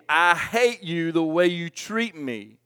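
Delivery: lightly acted shouting wife; retold yelling. Wife yelling at husband mid-fight, mild mock yell. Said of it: "she was saying".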